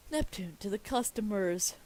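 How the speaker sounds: loud, emphatic announcement; proclaiming. Acted. Reader announces Neptune addressing the customers, proclaiming loudly. First take of script direction.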